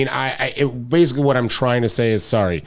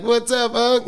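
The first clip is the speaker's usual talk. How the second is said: much higher, eager mock greeting; 12 semitones higher than usual. Chef re-enacts greeting his rapper uncle, high and eager. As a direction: pitch it way up, like a thrilled fan.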